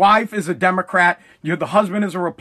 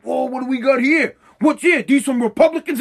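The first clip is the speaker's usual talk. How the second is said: suspicious; 3 semitones higher than usual. Retold or imitated. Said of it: "looking all suspicious".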